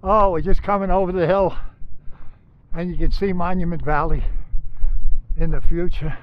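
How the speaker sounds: breathless and panting; out of breath. Real, not acted. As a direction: talk while catching breath. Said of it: "I'm out of breath".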